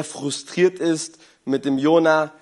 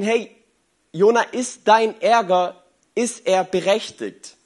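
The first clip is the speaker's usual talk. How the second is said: gentle question; 4 semitones higher than usual. Retold or imitated. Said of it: "kommt Gott mit ihm ins Gespräch".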